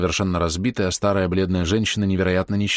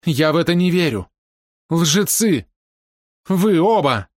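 higher, louder outburst of "liars"; furious accusation; 10 semitones higher, 5 dB louder, slower than usual. A narrator's reading. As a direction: hurl the accusation at both of them. Sister shouts accusation at both. (кричит на обоих мужчин, в ярости)

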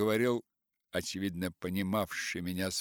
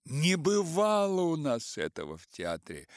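usual speaking voice

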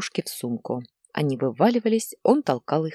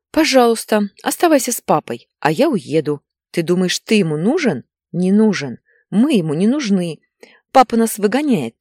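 angry mother's raised voice; shouting; 4 semitones higher, 6 dB louder than usual. A narrator's reading. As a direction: shout bitterly at your son, loud throughout. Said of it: "кричала Инна". (мать сердито кричит)

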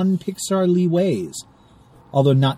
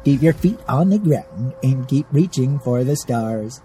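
Casey Kasem sign-off; 2 semitones lower, slower than usual. Retold or imitated. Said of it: "Casey Kasem's voice".

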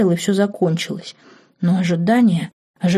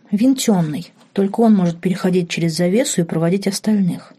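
ordinary delivery

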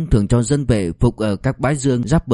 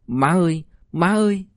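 high, softer broken cry for mother; soft sobbing; 6 semitones higher than usual. A narrator's reading. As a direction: sob it quietly, rising on the second call. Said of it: "Ba Thành nấc khẽ".

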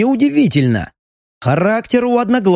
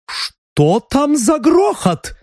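cook's voice; 10 semitones higher, much slower than usual. A narrator's reading. Cook demands, hands on hips.

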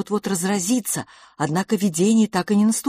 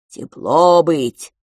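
louder broken-speech creature; cheerful creature voice; 8 dB louder, much slower than usual. Acted. Creature announces mealtime to the twins, cheerfully.

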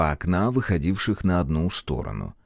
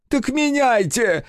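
roared; slower than usual. A narrator's reading. Director roaring at the cameraman, furious high roar. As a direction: roar the order in fury. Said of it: "взревел режиссёр".

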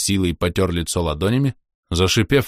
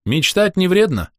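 smiling; 12 semitones higher, 4 dB louder than usual. Acted. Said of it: "широко улыбнулся я".

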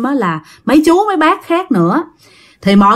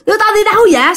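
high-pitched cackling questions; much higher voice, broken by a mock laugh; possessed laughing; 10 semitones higher, much faster than usual. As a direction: act out a possessed man laughing as he demands answers. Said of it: "ảnh cười quá trời cười luôn".

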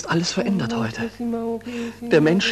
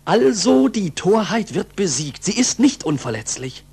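jubilant cry; 5 semitones higher, 3 dB louder than usual. Acted. Jubilant pupil after no bell.

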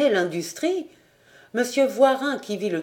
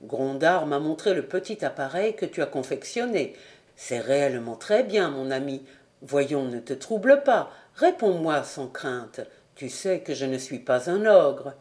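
put-on a touch lower, gently fatherly to the boy; paternal; 6 semitones lower than usual. Director reassuring his young apprentice, gently paternal. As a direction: kind director putting the apprentice at ease.

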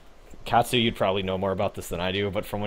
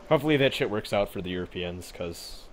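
hiccups. Real, not acted. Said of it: "I have the hiccups".

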